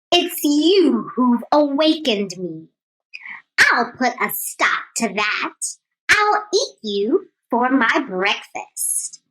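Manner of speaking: a touch of a low lion voice; lightly voiced lion threat. Lion threatening the mouse, mild low growl. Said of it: "the lion roared".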